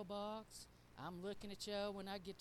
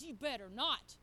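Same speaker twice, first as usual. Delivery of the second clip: mad warning; 5 dB louder than usual. Retold or imitated. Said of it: "I'm getting bad mad".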